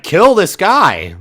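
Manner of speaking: loud, high, drawn-out attack cry; imitated guards yelling the order; mob shout. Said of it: "They shout".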